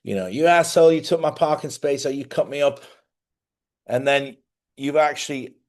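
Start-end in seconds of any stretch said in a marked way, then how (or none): 0.3-2.8 imitating an angry driver yelling, louder; mild mock shout at a driver; mock road rage yell. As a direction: bark it like a furious driver. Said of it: "started screaming at you".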